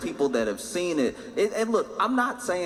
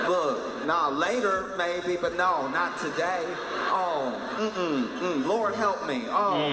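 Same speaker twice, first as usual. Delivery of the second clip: pleading; 2 semitones higher, slower than usual. Retold or imitated. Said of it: "conversing with it like somebody you owe a lot of money".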